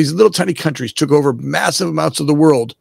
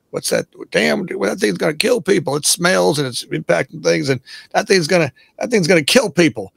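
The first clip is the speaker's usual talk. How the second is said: lightly put-on Southern accent, pitched higher; 4 semitones higher than usual. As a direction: slip into a mock Southern voice. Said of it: "talking with Southern accent".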